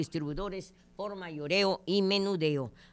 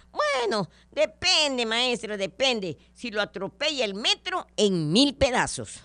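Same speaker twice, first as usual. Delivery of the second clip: cheeky pupil; 5 semitones higher, 4 dB louder than usual. Acted. Bruno answering the teacher, cheeky and high. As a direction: deliver the punchline like a sly kid.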